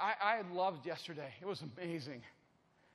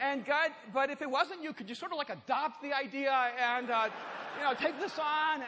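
loud, higher-pitched plea to God; retold desperate prayer, voice raised; earnest crying out; 4 semitones higher, 4 dB louder than usual. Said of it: "I remember crying out to God".

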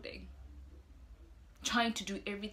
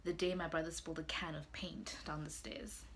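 whispering; 5 semitones lower, 5 dB quieter than usual. Acted. Hushed childhood memory.

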